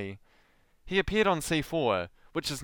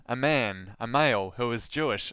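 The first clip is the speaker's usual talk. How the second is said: ordinary delivery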